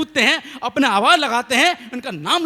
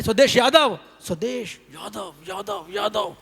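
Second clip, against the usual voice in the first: called name breaking into echoing repeats; 7 semitones higher, slower than usual. Retold or imitated. Mock echo returning many times over the water. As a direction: let the name echo back in pieces. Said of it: "आवाज़ लगाई".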